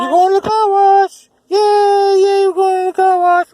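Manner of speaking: loud, excited cheering. Real, not acted. Parent cheering the car wash trip, excitedly.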